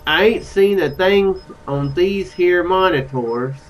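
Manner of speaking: slow, lightly Southern drawl; Southern accent. Acted. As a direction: read it slowly with a tentative Southern twang. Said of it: "is he Southern?".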